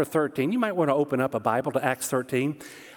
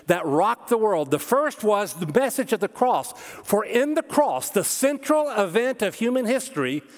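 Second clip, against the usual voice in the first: higher-pitched, driving sermon delivery; emphatic preaching; 4 semitones higher than usual. Real, not acted. Preacher telling congregation of the cross's power, emphatic preaching. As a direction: preach it with conviction, pitch lifted.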